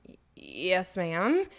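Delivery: hesitant yes, ma'am with a rising end; unconvincingly happy. Retold or imitated. Employee answering the boss who tests her on the phone, hesitant. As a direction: draw out an unsure, questioning answer. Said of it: "why don't you sound like it".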